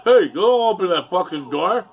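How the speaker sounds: angry shout to stop him leaving; retold yell. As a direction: yell at the kid to get back. Father yelling at fleeing kid.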